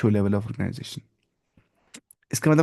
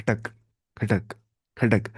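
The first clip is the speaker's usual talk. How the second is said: three separate "khatak" chops; imitated chopping sound; slower than usual. Shown as a demonstration. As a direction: mimic sword cuts, pausing between each. Imitates sword chopping a ball.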